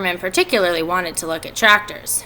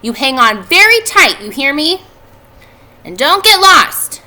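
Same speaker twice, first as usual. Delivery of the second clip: worried mother; 8 semitones higher, 8 dB louder than usual. A narrator's reading. Mrs. Arable warning her children at the fair, anxious. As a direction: fuss over the kids like an anxious mom. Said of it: "said Missus Arable".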